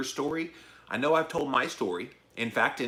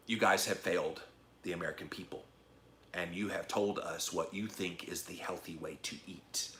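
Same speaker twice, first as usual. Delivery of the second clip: low, soft, earnest testimony; hushed, sincere reproach; from the heart; 4 semitones lower, 8 dB quieter than usual. Retold or imitated. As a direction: quietly confront them, sinking in volume. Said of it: "I just spoke from the heart".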